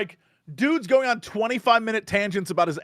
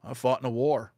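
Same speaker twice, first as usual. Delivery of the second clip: put-on grave old man; 6 semitones lower, 4 dB quieter than usual. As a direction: lower and softer, solemn. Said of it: "pauses, and goes".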